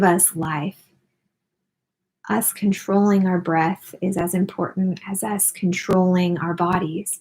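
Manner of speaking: unhurried guiding voice with long pauses; guided meditation. Acted. Host guiding listeners through breathing and posture, guided meditation. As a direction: lead them gently through each breath, leaving room between phrases.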